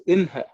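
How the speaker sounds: inha with n before h; common flipped pronunciation. Shown as a demonstration. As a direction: hold the n, then release ha in inha. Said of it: "pronounce it as".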